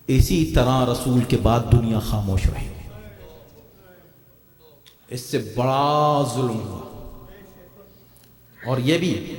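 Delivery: very low, slow and solemn; slow, deep, drawn-out lament-like tone; grave preaching. Real, not acted. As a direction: weigh each word low in the voice. Preacher turns to grief of the past.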